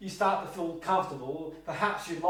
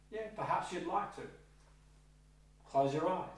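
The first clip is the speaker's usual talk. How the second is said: soft reassurance; 6 dB quieter than usual. Retold or imitated. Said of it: "they looked at me".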